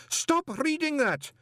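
panicked banker shouting; shouted order. Acted. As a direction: shout to stop the reading. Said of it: "Greeningham shouted".

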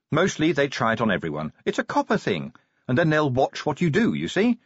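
lightly voiced sergeant explaining; brisk sergeant. Sergeant explaining cop pranks to new recruit, brisk and animated.

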